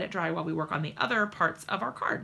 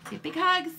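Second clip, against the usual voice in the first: coaxing prompt; 8 semitones higher, 4 dB louder than usual. Real, not acted. Mother prompting her toddler to say big hugs, high and lively.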